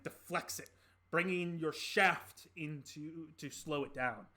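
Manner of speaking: dramatic, slow combat narration; game master narration. Acted. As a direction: draw out each beat of the fight.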